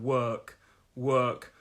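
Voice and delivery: "Work" with a long ER vowel; ER vowel sound. Shown as a demonstration. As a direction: model "Work" with ER, not OR. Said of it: "So it's an er sound".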